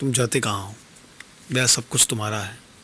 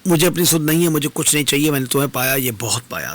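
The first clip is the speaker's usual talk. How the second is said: distressed protest; 3 semitones higher, 4 dB louder than usual. Acted. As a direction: protest with raised voice, overwhelmed. Distressed woman lets her beloved go. (व्याकुल होकर ऊँचे स्वर में)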